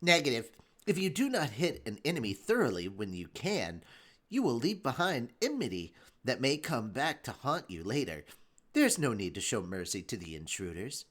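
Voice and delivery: low, cold menacing delivery. Acted. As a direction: coldly threaten the intruders. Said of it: "say that with a little more menace".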